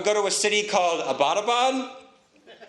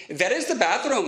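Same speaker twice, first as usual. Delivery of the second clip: mock Pakistani accent; 4 semitones higher than usual. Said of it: "speak English with a Pakistani accent".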